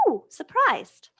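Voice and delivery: stretched, lifted ooh; mock surprised ooh. Shown as a demonstration. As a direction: ham up being surprised for the class. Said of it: "different versions of the".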